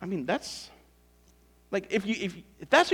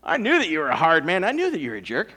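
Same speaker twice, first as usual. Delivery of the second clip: buttering up; 6 dB louder, faster than usual. Acted. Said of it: "He's totally buttering him up here".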